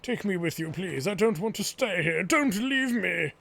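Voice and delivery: put-on a frightened young girl begging her parents not to leave; pleading little girl voice. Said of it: "It's hard to do this voice".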